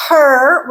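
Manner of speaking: her with the R dropped. Shown as a demonstration. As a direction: hold the vowel of her, no R coloring. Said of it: "without that R coloring on it".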